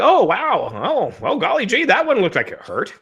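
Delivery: high, gee-whiz mock commentator; hammed-up innocent amazement; wholesome 1950s kid. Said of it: "they're just like".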